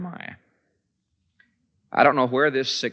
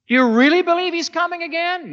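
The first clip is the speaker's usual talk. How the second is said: loud challenge; 6 dB louder than usual. Retold or imitated. The world questioning the believer.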